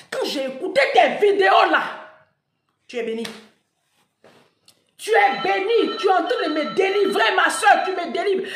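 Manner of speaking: loud, laughing, ecstatic praise; grateful follower. Retold or imitated. Storyteller voicing a woman thanking her for the videos, ecstatic. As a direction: gush like a delivered believer.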